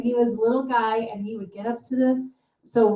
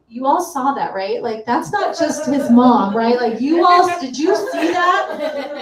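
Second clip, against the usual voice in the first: louder, higher, eager call to the other parents; proud mom calling out; 3 semitones higher, 7 dB louder, slower than usual. Retold or imitated. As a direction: half-shout of pride, slowing down at the end.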